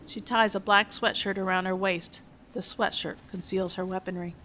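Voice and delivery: measured, even script reading; screenplay narration. A narrator's reading. Reads film script aloud.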